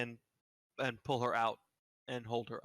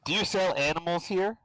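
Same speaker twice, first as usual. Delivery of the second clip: raised, higher voice for the hard of hearing; loud, pitched-up question; loud repeat; 6 semitones higher, 9 dB louder than usual. Acted. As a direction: call it out so a deaf man hears. Repeating for a deaf old man.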